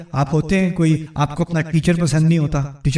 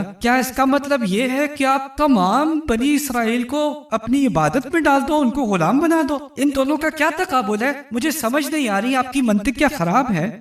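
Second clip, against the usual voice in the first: raised, incredulous questioning; mock incredulous; 6 semitones higher than usual. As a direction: act baffled by the logic. Musa mocking Pharaoh's logic. (حیرانی سے طنزیہ سوال)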